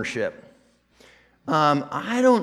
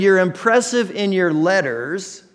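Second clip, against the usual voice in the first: mock critics; 3 semitones higher than usual. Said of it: "They said".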